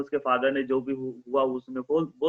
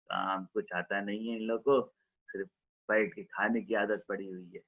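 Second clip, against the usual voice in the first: angry muttering; 5 semitones lower, 5 dB quieter than usual. Acted. Father grumbling about doctors under his breath. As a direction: mutter it under your breath, much softer. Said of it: "father अपने मुंह में बड़बड़ा रहा था".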